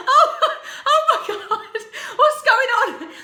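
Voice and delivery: very high, loud, laughing mock panic; flustered nan. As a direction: squeal it out like a mortified granny.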